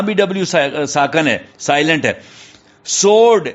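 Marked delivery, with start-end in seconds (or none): 2.8-3.5 सोर्ड said as sord with no w sound; teacher showing the silent w in सोर्ड. Shown as a demonstration. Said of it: "तलवार जिसको कहते हैं".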